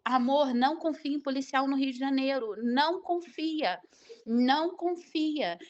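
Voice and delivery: imitating husband's warning. Husband warns wife not to trust Rio police, insistent warning.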